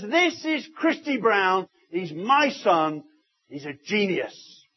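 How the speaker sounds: slow, proud announcement; slow, proud declaration; proud father. Retold or imitated. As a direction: present him to the whole pub with pride. Proud dad presents son in pub.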